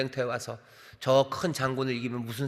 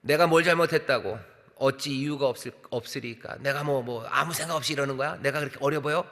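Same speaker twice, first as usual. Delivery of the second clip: mock indignant protest, punched at the start; talking back. Youngest brother standing up to his big brother, talking back. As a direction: open forcefully, then grumble back. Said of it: "막내들이 형한테 좀 대듭니다".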